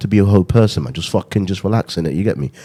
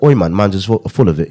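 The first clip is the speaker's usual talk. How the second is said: put-on London accent. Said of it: "I always do the accent".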